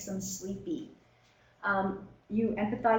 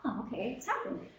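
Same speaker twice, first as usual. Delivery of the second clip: quiet inner realisation; 2 semitones higher, 7 dB quieter than usual. Retold or imitated. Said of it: "recognize when that's happening".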